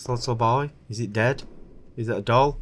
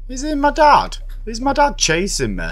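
frightened, rising pitch; panicked high questions; 11 semitones higher than usual. Real, not acted. Panicked questions in horror game.

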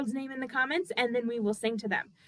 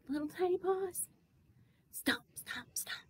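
tiny, high and soft; tiny baby voice; 7 semitones higher, 11 dB quieter than usual. Shown as a demonstration. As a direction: whisper like a baby dinosaur. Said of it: "little baby dinosaur".

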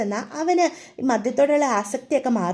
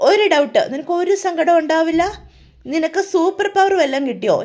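drunk mockery; 4 semitones higher than usual. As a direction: poke fun at her like a drunk. Drunk Akash mocking Meenakshi.

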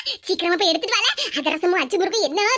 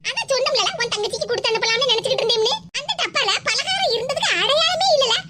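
aggrieved, pitch climbing as it builds; angry grievance; 3 semitones higher than usual. Acted. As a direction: work yourself up while complaining to your son. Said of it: "எவ்வளவு கோவம் வரும்". (கோபமும் வயிற்றெரிச்சலும் கலந்த குரல்)

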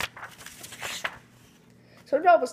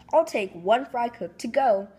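shouting; 3 semitones higher, 4 dB louder than usual. Acted. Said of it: "the manager shouted".

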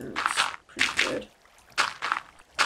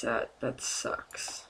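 dejected groan; 8 semitones lower, 6 dB quieter, much slower than usual. Real, not acted. Lamenting the loss.

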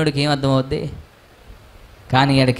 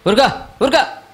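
mocking the crowd's hush; 9 semitones higher than usual. Preacher mimics the crowd hushing the blind man, high and mocking. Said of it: "ఇప్పుడు దాకా వీళ్ళు ఏమన్నారు?".

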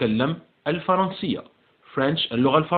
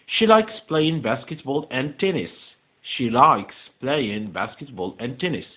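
slow, evenly spaced English words; slow model reading; slower than usual. Shown as a demonstration. Teacher repeating a true-or-false statement, slow model reading. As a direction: read slowly so pupils can follow.

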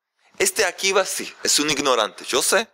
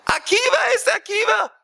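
shouting in outrage. Acted. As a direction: scream the insult at her. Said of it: "¿Por qué estás gritando?".

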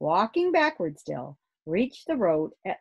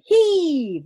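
big, high shouted heave; the same full-voiced heave shout; 12 semitones higher, 12 dB louder than usual. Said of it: "shouted Father".

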